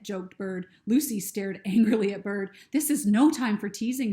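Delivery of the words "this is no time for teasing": louder angry snap; snapped. Acted. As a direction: cut him off sharply, annoyed. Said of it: "she snapped".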